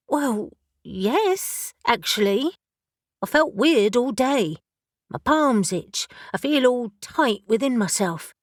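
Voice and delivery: confessing odd feelings, puzzled; young witch Elle. Acted. Elle character voice.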